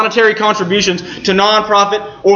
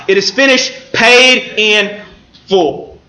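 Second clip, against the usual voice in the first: triumphant; slower than usual. Acted. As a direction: proclaim it like a victory. Triumphant repetition of the cry.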